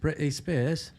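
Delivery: "Britney" with a catch instead of T; dropped T. Shown as a demonstration. Playing with British dropped T's, "Britney" without its T. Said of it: "British people don't say their T's".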